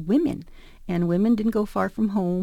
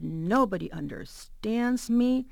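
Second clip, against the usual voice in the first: slow, dramatic woe-is-me; hammed-up, slow lament; self-pitying lament. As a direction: draw it out in mock teenage despair. Retold teenage despair in thought.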